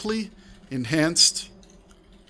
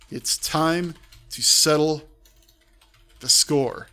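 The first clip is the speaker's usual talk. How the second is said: ordinary talk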